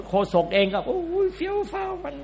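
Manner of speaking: high, soft mocking voice for the showy presenter; mocking flashy host. (ล้อเลียนพิธีกรเฟี้ยวฟ้าว เสียงสูงเบา)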